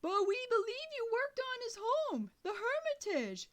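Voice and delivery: loud, high yell; boy yelling his name to a deaf old man. A narrator's reading. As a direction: shout every word down the line. Still shouting on phone.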